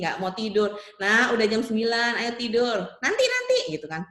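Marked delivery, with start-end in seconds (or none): 1.0-2.8 raised-voice parent; acted parent's bedtime nudge. Acted parent sending child to bed. 3.0-3.6 put-on high, loud child's protest; acted kid stalling. Acted child putting parent off.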